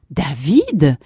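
a hint of reedy elders' exclamation; thin-voiced old couple. Grandparents spot their grandson, lightly voiced thin cry. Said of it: "s'écrièrent-ils d'une voix fluette".

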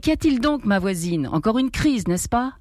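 vieille voisine alarmée, voix haute au début; s'écrier en entrant, inquiète; voisine qui s'écrie. Acted. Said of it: "une voix s'est écriée". (voisine qui accourt au cri, s'écrie avec inquiétude)

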